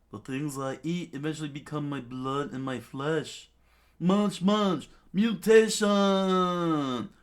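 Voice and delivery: building to a loud drawn-out shout; hammed-up villain shout; villain transformation cry. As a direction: roar the move name slowly.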